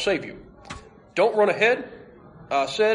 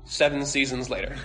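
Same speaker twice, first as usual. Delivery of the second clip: ordinary talk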